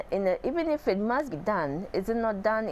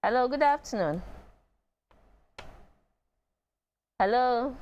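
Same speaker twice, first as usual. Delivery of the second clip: higher-pitched phone greeting; calling out; 4 semitones higher than usual. Real, not acted. Host hailing a silent caller on the line, calling out. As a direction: call down the line for an answer.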